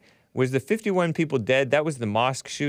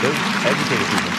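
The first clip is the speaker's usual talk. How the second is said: sarcastic; 4 dB louder, faster than usual. Real, not acted. Sarcastic loud remark at clip.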